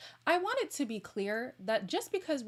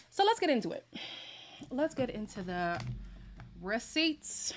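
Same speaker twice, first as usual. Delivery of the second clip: excited; 3 semitones higher than usual. Real, not acted. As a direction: relish the drama ahead. Launching into Jackie's receipts.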